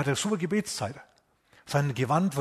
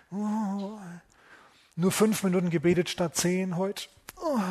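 mock worry; 5 semitones higher, slower than usual. Mocks an anxious believer's worry.

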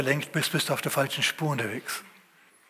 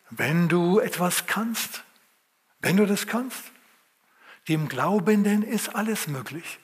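weighty Jesus words; 3 semitones higher, slower than usual. Acted. Jesus answers the father.

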